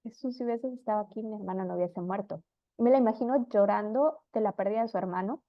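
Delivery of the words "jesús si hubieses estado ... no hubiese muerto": tearful lament. Retold or imitated. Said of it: "pero más es un llanto".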